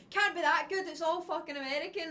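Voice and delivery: imitating boyfriend's scream. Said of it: "you went".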